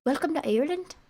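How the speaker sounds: high-pitched Irish welcome; mock Irish accent. Joking tries at Irish accent.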